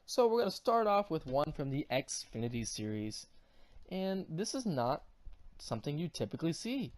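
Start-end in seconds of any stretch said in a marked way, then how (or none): none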